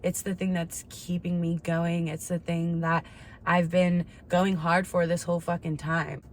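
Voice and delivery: ordinary talk, nothing marked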